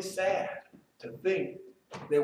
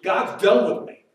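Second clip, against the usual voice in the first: loud, hopeless cry; despairing Job; 3 semitones higher, 8 dB louder than usual. Acted. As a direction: call out that God has given up on him. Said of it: "Job now is saying".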